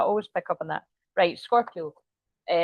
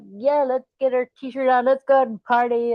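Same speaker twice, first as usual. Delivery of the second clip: louder, higher hammed-up party cheer; mock excited; 5 semitones higher, 6 dB louder than usual. Reader voicing the man keen to party, mock excited. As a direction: play someone hyped up to go out. Acted reply, going out to party.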